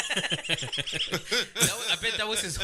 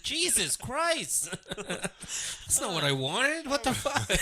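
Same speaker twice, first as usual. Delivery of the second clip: demon voice; 6 semitones higher, much slower than usual. Pretend. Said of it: "imagine if a demon shows up".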